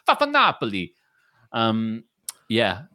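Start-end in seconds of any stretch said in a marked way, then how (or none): 0.1-0.9 mock Italian-American accent. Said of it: "Why is he Italian American?".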